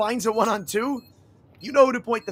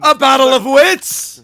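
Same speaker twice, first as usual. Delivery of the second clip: slow booming cartoon narrator; SpongeBob announcer; 5 semitones higher, 10 dB louder, slower than usual. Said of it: "the SpongeBob announcer".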